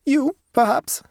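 high, composed peasant woman; unruffled German-accented woman; calm. A narrator's reading. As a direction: answer calmly in a high voice. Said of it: "said the woman calmly".

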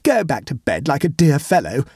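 high, coaxing entreaty; pleading. A narrator's reading. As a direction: humour him with a mild plea. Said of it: "he pleaded".

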